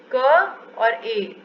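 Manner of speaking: each sound stretched out very slowly. Shown as a demonstration. Teacher sounding out K for young learners, very slowly. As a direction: break the letter into its parts, very slowly. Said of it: "के ऐसे निकाल सकते हैं हम".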